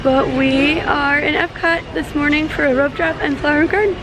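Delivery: lost voice, hoarse and strained. Real, not acted. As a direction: speak through a worn-out raspy throat. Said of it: "I lost my voice from yesterday".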